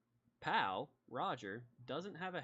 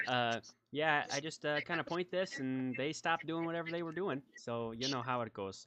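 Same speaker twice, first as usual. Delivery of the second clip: lightly voiced casual lawman, louder; folksy small-town sheriff; 2 semitones higher, 5 dB louder than usual. Sheriff showing visitors his wand, casually folksy. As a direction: explain it offhand with a hint of folksy sheriff.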